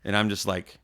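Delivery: normal talking voice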